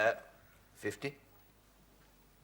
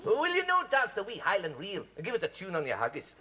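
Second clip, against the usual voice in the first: mock Scottish accent; 4 semitones lower, 4 dB quieter than usual. Keeps up mock Scots to guest.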